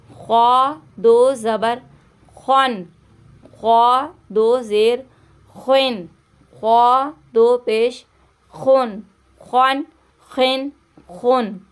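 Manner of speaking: ख्वा said thick with a rounded dark vowel; heavy emphatic kh for a reading lesson. Shown as a demonstration. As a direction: make ख्वा rasp full and heavy. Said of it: "इसको भी मोटा पढ़ेंगे".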